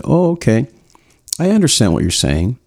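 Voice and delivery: even, accepting tone; matching her tone. Shown as a demonstration. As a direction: meet her energy without pushing. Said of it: "I literally said it like that".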